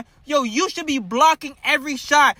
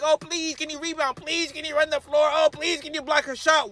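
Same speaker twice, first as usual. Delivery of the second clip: mock pleading to lazy players; mock begging; 2 semitones higher than usual. Fan mimicking the team begging its players, mock pleading. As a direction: beg sarcastically, hammed-up please. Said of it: "We have to sit up here and beg".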